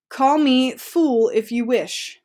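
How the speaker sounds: slowly, weight on "Call"; slow read. Shown as a demonstration. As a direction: read "Call me fool if you wish" slowly and evenly. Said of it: "commas with direct address".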